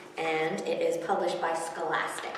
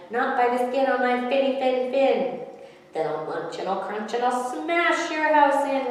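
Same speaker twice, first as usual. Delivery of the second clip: roared; 5 semitones higher, 5 dB louder than usual. A narrator's reading. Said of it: "roared the shark".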